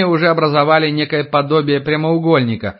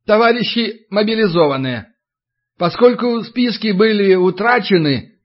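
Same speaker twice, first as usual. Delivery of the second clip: official speech; 6 semitones higher than usual. Acted. Paunchy official addresses recruits.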